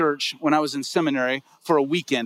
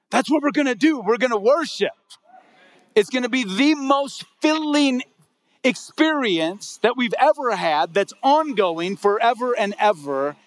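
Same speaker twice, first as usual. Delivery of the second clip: excited preaching; 6 semitones higher than usual. Real, not acted. Pastor stirs up congregation about worship.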